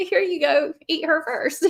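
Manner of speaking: high-pitched, frantic, panicked delivery. Retelling how she offered the speaker up to the thing: retelling her panicked offer. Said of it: "she's like".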